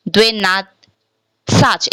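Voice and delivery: slow "Dvenatsach" with a clear "e" in "dve"; unreduced YE pronunciation. Shown as a demonstration. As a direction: draw out "Dvenatsach", keeping the full first vowel. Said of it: "Instead of pronouncing Dvenatsach".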